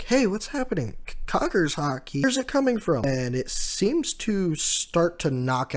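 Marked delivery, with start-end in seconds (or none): 0.0-3.0 much higher, frantic questions; alarmed underlings asking what is going on; panicked crew. Retold or imitated. Crew members panicking as their comrades pass out, much higher. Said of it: "Kaido's crew is like".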